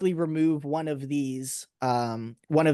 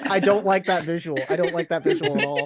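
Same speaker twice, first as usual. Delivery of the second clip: laughing; 5 dB louder than usual. Real, not acted. Laughing at image.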